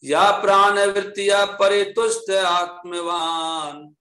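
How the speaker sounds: slow Sanskrit chanting; verse recitation. Acted. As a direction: recite the shloka slowly.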